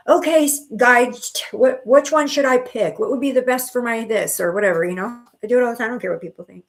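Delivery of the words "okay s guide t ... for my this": asking her guide aloud. Retold or imitated. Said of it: "I do it while I'm walking down the middle of the aisle".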